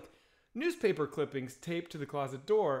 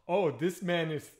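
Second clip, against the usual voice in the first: hesitant, slowed imitation of an African accent; attempted African accent; slower than usual. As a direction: start an African accent, slowly. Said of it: "I'm not gonna do the accent".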